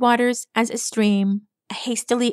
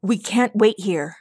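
urgent in-character voice, barely raised; urgent call. A narrator's reading. Astral to the five laborers, urgent call. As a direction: call to the group with restrained urgency. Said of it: "Astral shouted to the five reunited laborers".

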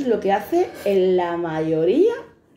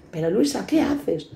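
annoyed guard. Retold or imitated. Young guard scolding pregnant Luisa, mock annoyed. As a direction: scold her with qué jumping up. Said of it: "El guardia se enfada".

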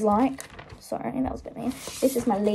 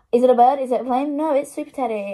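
superhero announcer; 2 semitones higher, 4 dB louder, faster than usual. Pretend. Superhero catchphrase for teddy drawing.

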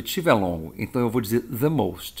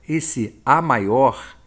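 "a maior" drawn out slowly and louder; stress on a maior; 4 dB louder, much slower than usual. Shown as a demonstration. Teacher stressing the words for students, slow and loud. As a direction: stretch "a maior" to point at the superlative. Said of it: "é o superlativo".

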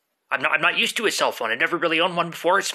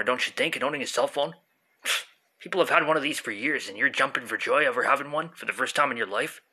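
arguing with myself; 4 semitones lower than usual. Acted. Stoned friend answers back.

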